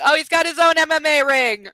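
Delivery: loud, high delighted outburst; amused exclaim. Real, not acted. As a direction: exclaim it with glee.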